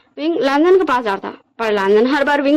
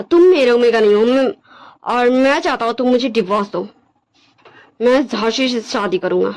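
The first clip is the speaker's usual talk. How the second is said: measured, dismissive character voice; cold, rejecting Wangji. Acted. Wangji demands a divorce from Wing, cold and dismissive. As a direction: reject him firmly, with deliberate pauses.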